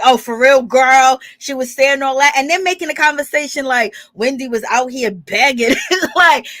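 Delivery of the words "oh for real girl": mock disbelief. Giselle's disbelief retold.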